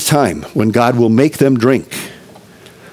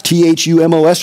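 spelled out; 2 semitones higher than usual. Shown as a demonstration. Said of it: "spelling the word out".

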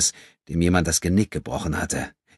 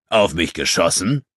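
naive questioning; 4 dB louder than usual. A narrator's reading. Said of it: "in fragend naivem Tonfall".

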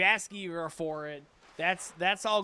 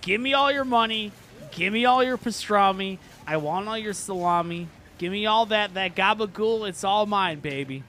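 robber demand; 4 dB louder than usual. Acted. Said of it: "And he says".

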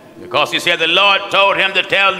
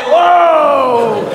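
high, loud answering holler; mock yell back; 10 semitones higher, 5 dB louder than usual. Preacher retelling his reply to a yelling brother, mock yell. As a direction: copy his outburst right back.

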